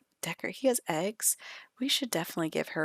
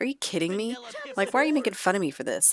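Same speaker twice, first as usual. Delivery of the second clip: indignant, raised-pitch retort; arguing back. Acted. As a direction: defend yourself with mock offence. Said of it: "argue a little bit".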